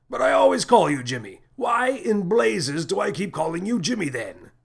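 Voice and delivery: genuinely confused outburst; captain puzzled at his own mistake; baffled captain. A narrator's reading.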